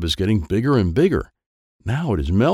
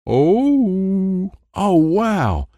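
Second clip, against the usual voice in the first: high, loud booming wonder; boy through the voice enhancer; amplified voice; 13 semitones higher, 4 dB louder, much slower than usual. A narrator's reading. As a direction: blast it out like through a speaker. Voice box amplifies Dwayne.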